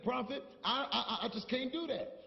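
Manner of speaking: quiet retold reluctance. Lady excusing herself to the prophet, quiet and hesitant.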